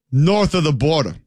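half-hearted put-on Canadian accent; a stab at a Canadian accent; attempted Canadian accent. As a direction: try a vague, unsure Canadian accent. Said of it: "I don't know what that accent was".

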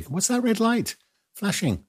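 high-pitched mock bewilderment; puzzled driver. Driver spotting a dashcam light, high puzzled voice. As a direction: play an unknowing driver, voice pitched right up. Voicing an unknowing driver in a skit.

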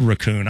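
raccoon said "ruh-KOON"; weak "ruh" at the start of raccoon; quoted ruh-KOON for raccoon; soft raccoon. Retold or imitated. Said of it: "soft raccoon is a thing".

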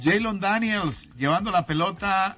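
play-by-play. Pretend. Mock football play-by-play.

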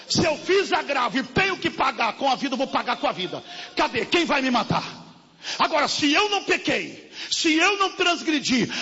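fiery preaching. Acted. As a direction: preach it hard at the congregation. Preaching at full force.

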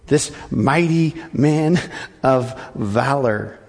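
ironic mighty man. Shown as a demonstration. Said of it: "ironic repeat of title".

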